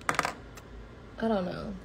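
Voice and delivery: a slow, breathy whisper; slow whisper, giving up on remembering. Real, not acted. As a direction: let it drop to a bare whisper. Trails off unsure of his sign.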